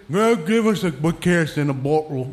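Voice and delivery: put-on a light Irish accent, Christy Brown style; lightly voiced Irish brogue; imitating Irish accent. Telling friends how Christy Brown sounds, a hint of Irish accent. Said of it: "I start speaking like that".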